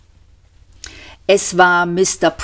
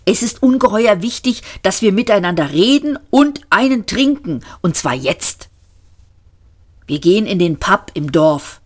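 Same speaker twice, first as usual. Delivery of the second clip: higher, faster urgent Ford; 3 semitones higher than usual. Acted. Ford urging Arthur to the pub, urgent. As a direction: push it, Ford can't wait.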